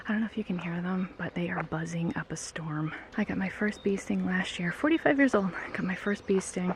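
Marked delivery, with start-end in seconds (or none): 0.1-2.9 hushed. Real, not acted. Listening to bees buzzing nearby.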